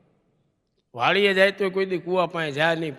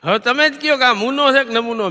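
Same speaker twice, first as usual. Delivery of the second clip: higher and louder, hammer the punchline; punchy loud catchphrase; 4 semitones higher, 4 dB louder than usual. Acted. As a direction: throw it out to the crowd. Catchphrase repeated louder to audience. (હવે તમે જ કયો એ જોરથી, ઊંચા સૂરે પૂછવું)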